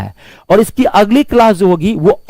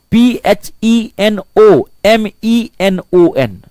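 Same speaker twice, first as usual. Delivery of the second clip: slow, each letter of P H E N O M E N O N separate; spelled out slowly; 4 semitones higher, much slower than usual. Shown as a demonstration. Teacher spelling phenomenon slowly for the class. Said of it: "phenomenon".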